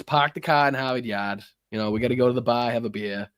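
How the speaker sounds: lightly played-up Boston accent. Shown as a demonstration. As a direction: lean a little into your Boston accent. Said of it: "it accentuates my Boston accent".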